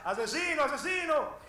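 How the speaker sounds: high-pitched mock accusation; retold yelling. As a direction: imitate an outraged man's cry, volume held back. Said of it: "le gritaba". (grito de acusación imitado, agudo)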